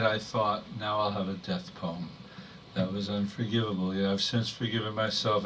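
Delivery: measured, restrained poem delivery; poetry reading. Acted. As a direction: read verse to an audience, pausing between phrases. Reads poem about mother.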